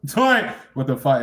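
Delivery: high laugh into a loud what the fuck; laughing disbelief. Real, not acted. Streamer laughing at followers, loud and high. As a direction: laugh it out incredulously.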